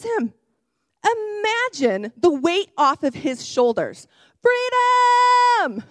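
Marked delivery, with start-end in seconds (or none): 4.4-5.8 loud high joyful shout; excited shout. Real, not acted. Youth preacher excited by forgiveness, shouting freedom. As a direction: burst out with the joy of release. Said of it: "I get a little excited when I share".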